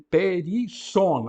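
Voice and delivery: "perisson" very slow, with a double S; slow Greek reading. Shown as a demonstration. Teacher reads a word with two sigmas to the class, slow. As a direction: stretch "perisson" out slowly. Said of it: "Aqui temos os dois sigmas".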